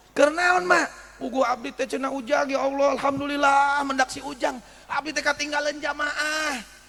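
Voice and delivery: lightly voiced granny; relieved old woman. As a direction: sound thankful to be found.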